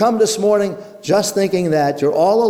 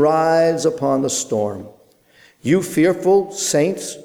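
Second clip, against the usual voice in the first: hymn recital. Acted. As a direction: recite the verses reverently. Reads Cowper's hymn aloud.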